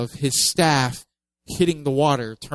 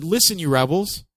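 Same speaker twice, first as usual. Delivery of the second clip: sharp, higher frustrated rebuke; frustrated Moses; 5 semitones higher, 4 dB louder than usual. Retold or imitated. Moses scolding the complaining people, frustrated and sharp. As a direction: snap at the rebels in frustration. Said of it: "the first one was frustration".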